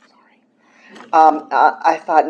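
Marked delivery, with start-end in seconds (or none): 0.1-1.0 softly whispered sorry; whispered apology. Real, not acted. Apology after swearing.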